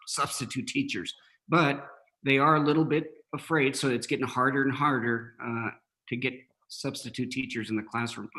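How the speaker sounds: talking through hiccups; fighting off hiccups. Real, not acted. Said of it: "Sorry, I have the hiccups".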